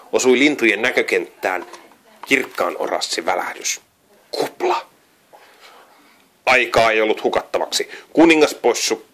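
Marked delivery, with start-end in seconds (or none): 4.3-4.9 very high squeal; high excited cry. A narrator's reading. Birds spotting their friend, squealing high. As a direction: squeal the name in surprise.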